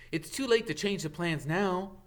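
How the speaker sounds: put-on brisk boyish voice; Harry, urgent.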